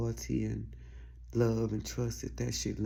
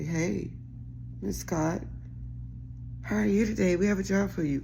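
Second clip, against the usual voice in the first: higher, louder, sugary customer-service greeting; polite phone voice; 7 semitones higher, 3 dB louder than usual. Retold or imitated. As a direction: switch into the sweet professional phone voice for a caller. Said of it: "Bitch, my whole demeanor gonna change".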